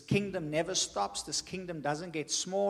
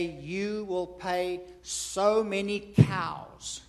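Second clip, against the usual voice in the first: lightly voiced father, slow and deliberate; father stating terms; 4 dB louder, much slower than usual. Father names the bride price to a suitor, slow and firm. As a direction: spell out the demand slowly, as a father. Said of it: "and the father will say".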